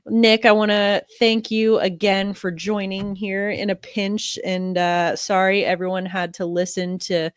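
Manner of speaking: stuffy nose from a cold; talking through a head cold; nasal sick voice. Real, not acted. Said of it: "I sound a little nasal today".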